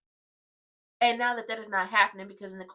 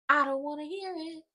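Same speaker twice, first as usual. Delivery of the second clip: firm and a bit higher, fed-up; I don't wanna hear it, said firmly and higher; emphatic; 6 semitones higher than usual. Real, not acted. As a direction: declare it with finality. Repeated line, then whispered.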